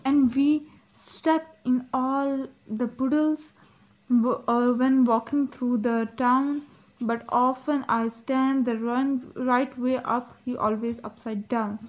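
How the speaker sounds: slow, careful poem reading; poem read aloud. Acted. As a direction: read the verse slowly, phrase by phrase. Reads the poem aloud slowly. (धीमे, ठहर-ठहर कर कविता पाठ)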